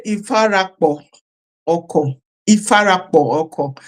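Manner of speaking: "Ifarapo oko" with a doubled kp sound before the o; Yoruba pronunciation. Shown as a demonstration. Presenter showing viewers the Yoruba term, careful Yoruba "Ifarapo oko". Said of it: "even Yoruba, they say".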